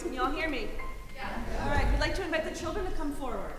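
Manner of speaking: loud, projecting classroom voice; teacher voice. Real, not acted. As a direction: call out to the whole room like a teacher. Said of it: "break out my teacher voice".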